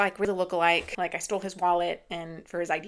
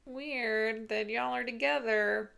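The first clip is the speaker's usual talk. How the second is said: slow, higher-pitched mock suspicion; insinuating; 4 semitones higher than usual. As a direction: imitate a snoop dropping a slow, pointed hint. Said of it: "Kind of insinuating".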